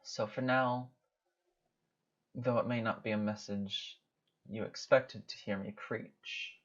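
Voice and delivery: measured, portentous speech with long pauses; solemn goddess. Acted. Goddess warning a mortal of changes to come, solemn.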